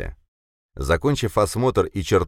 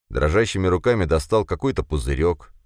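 ordinary delivery, nothing marked

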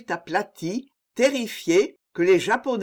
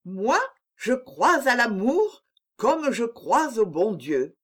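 eager countess voice; 4 semitones higher than usual. A narrator's reading. Countess declares her faith in love.

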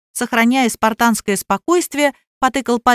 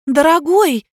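high louder call of dear; calling after him; 7 semitones higher, 4 dB louder, slower than usual. A narrator's reading. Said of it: "кинулась за ним Надя". (окликает мужа, выше и громче)

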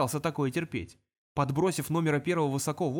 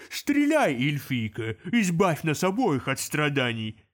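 louder, slower demon growl; desperate demon; 4 dB louder, slower than usual. Acted. Demon daring the elf to shoot. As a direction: dare her to shoot. Demon holding imp as shield.

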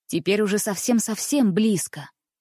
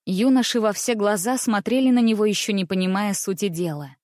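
plain reading voice

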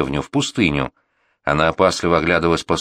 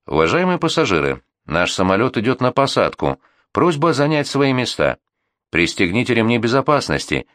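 flight attendant announcement; 4 semitones higher than usual. Acted. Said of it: "стюардесса повторяла одну и ту же фразу".

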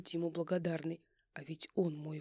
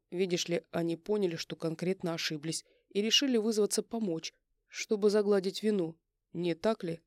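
stern; 4 dB louder than usual. Acted. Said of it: "Кивает он грозно ребятам".

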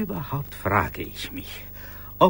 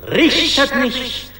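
solemn scripture; 10 semitones higher, 8 dB louder than usual. Acted. Quoting the Bible to his colleague, solemn and preachy. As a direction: pronounce it like a sermon from the pulpit.

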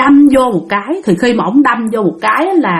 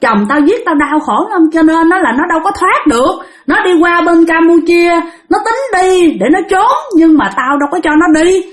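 mildly raised, aggrieved ranting; fierce defiance; 5 semitones higher than usual. Retold or imitated. Vengeful spirit telling the master about her killer, fierce. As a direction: retell a spirit's bitter outburst. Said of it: "Lúc đó bả làm dữ lắm".

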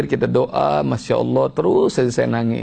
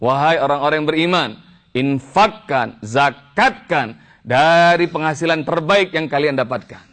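declaimed scripture; 3 semitones higher than usual. Real, not acted. Declaims translated verse.

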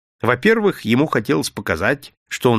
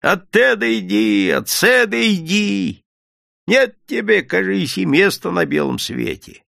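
peasant vendor complaint; 8 semitones higher than usual. A narrator's reading.

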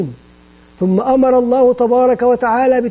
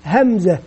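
همزة said slowly and clearly, falling at the end each time; slow letter drill; 3 semitones lower than usual. Shown as a demonstration. Teacher modelling the letter name for children to repeat, slow falling. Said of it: "التركيز الآن على أسماء الحروف".

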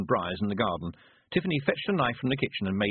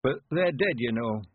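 put-on high, slow creaky old countryman; old man voice; 4 semitones higher than usual. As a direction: play a cheerful old villager.

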